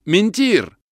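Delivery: loud, high shouted order; shouting. A narrator's reading. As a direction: bellow it at the fleeing men. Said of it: "кричат кубинцы". (громко выкрикнуть приказ)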